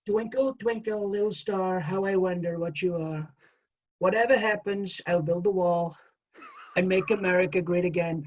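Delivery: a hint of a bragging president singing a nursery rhyme; understated Trump-style boast; Donald Trump. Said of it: "Donald Trump to do Twinkle".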